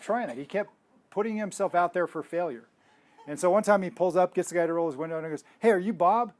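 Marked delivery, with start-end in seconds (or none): 5.6-6.3 higher, louder call to the next car. Retold or imitated. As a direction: imitate hailing a stranger through a car window. Voicing man calling to next car.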